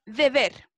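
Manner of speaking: "deber" begins with Spanish "deh". Shown as a demonstration. Teacher giving an example of initial DE, said "deh". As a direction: open "deber" on "deh", not "dji". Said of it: "igual que en español".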